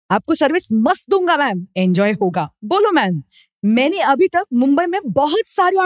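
mock spammer voice. Reads spammer's Hindi messages.

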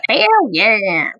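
creepy, weird game-show call. Shown as a demonstration. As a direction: say it like a slightly creepy host. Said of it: "Creepy, weird voice".

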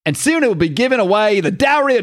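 put-on British accent. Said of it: "no, that's Australian".

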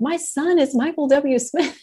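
lightly imitating a proud dad calling out; a hint of dad shouting from the gurney; mock proud yell. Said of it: "kinda yelling from the gurney".

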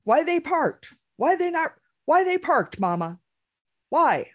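put-on nagging little kid voice; whiny kid. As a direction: imitate the kid nagging about the combines. S2 voices kid's whining questions.

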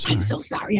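low, soft apology; imitating an embarrassed announcer; retold sheepish apology. Retold apology for announcing her wrongly.

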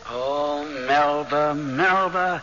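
pitying sigh. Acted. Ghost pities the widow clinging to her husband, ruefully. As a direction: sigh her name with pity. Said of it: "Why do you say, "Oh, Melba, Melba," like that?".

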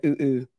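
understated monkey hoots; imitated monkey noise. Co-host retelling an off-screen clip, mock monkey noise. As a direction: lightly mimic a monkey's ooh-ooh. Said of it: "making the monkey noise".

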